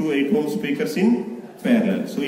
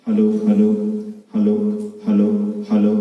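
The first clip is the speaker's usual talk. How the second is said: amplified mic test with the treble raised; mic check through the amplifier, treble up; 6 semitones lower, much faster than usual. Shown as a demonstration. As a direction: test the mic over the loudspeaker with extra treble. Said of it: "I am wearing the treble".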